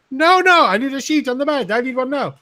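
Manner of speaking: very high, loud mock Italian accent; frantic tourist in a hammed-up accent. Italian tourist shouting at reception in a frantic mock accent. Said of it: "the Italian".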